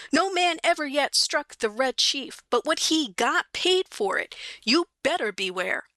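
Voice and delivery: high boy's voice playing a fierce chief; little tyrant's threat; boastful kid chief. Kid threatens Bill as Red Chief.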